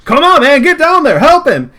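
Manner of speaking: high loud urging; urgent shout. Acted. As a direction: yell at him to get down there. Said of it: "the other guy, is like".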